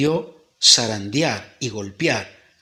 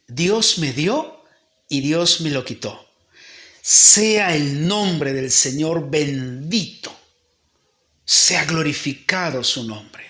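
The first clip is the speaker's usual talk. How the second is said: tearful prayer; slower than usual. Acted. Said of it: "Empieza a llorar y dice".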